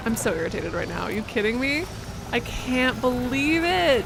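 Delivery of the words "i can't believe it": exasperated. Real, not acted. Cargo damaged again.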